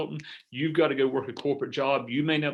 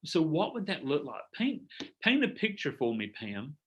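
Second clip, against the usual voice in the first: caring coaching tone; 5 dB quieter than usual. Shown as a demonstration. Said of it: "it's tonality".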